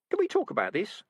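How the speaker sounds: squeaky rat. Acted. Rat caught by cat.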